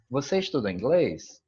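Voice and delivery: "você estuda inglês?" said as a question, marked by tune alone; entonação de pergunta. Shown as a demonstration. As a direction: make "você estuda inglês?" a question through intonation only. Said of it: "a gente só sabe pela entonação". ("você estuda inglês?" com entonação de pergunta)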